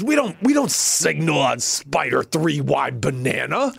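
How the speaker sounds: slow, put-on coach's reprimand; imitating scolding coach. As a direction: scold slowly in a mock coach voice. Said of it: "I got yelled at".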